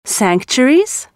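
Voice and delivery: slow, wondering rise; puzzled question. Acted. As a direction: ask it slowly in disbelief. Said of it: "they asked".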